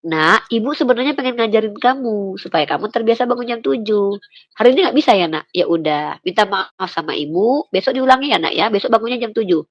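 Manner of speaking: put-on tender talking-to for a child; gentle mother. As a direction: patiently teach your child, voice easing down. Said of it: "maka saya katakan".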